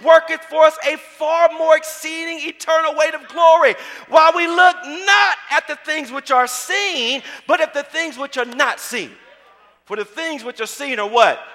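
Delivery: loud, high-pitched sermon delivery; fervent preacher proclaiming the Word; full-force preaching. Real, not acted. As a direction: drive the scripture home to the congregation.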